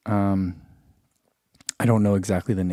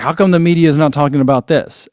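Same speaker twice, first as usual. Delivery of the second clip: imitated indignant question, louder; louder, mock-outraged quote; mock complaint; 3 semitones higher, 6 dB louder than usual. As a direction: mimic followers demanding an answer, raised volume. Imitating complaining messages from followers.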